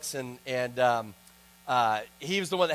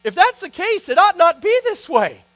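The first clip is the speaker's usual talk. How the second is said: higher, louder preacher's rebuke; retelling the speaker's fiery challenge to pastors; rousing exhortation; 9 semitones higher, 8 dB louder than usual. Retold or imitated. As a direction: build it into a call to the elders. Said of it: "Then he went on to say".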